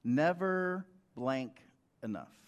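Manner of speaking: slow, drawn-out accusing voice; preacher demonstrating the voice of evil, slow and taunting. Shown as a demonstration. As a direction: let the accuser taunt slowly. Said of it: "Evil's voice sounds like this".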